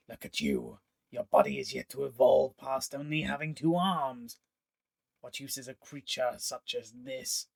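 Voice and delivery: contemptuous alien sneer; scornful villain. Acted. Pontifex mocking the two-armed elf with contempt. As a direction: look down on her with disdain.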